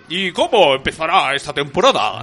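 slow, put-on puppet-dog voice; talking dog. Dog asking the presenter about the season, playfully voiced. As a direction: ask it as a TV show's dog. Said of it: "y el perro dice".

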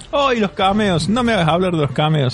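high, gushing fan swooning over John Williams. Retold or imitated. Mock fan gushing over the Star Wars music.

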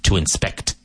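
"inspect" stressed on SPECT; second-syllable stress. Shown as a demonstration. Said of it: "With the emphasis on the second syllable".

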